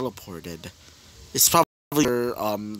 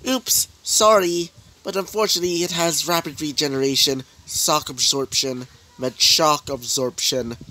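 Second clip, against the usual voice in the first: mock apology; 3 semitones higher than usual. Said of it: "As she would say this".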